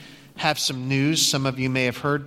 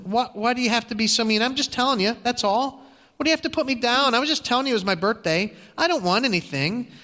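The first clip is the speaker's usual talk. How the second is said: higher, faster, a touch of hurt pleading; hurt plea; 6 semitones higher, faster than usual. Retold or imitated. Agnes answering her mean friend, mildly hurt and pleading. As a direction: plead lightly, wounded by the put-down.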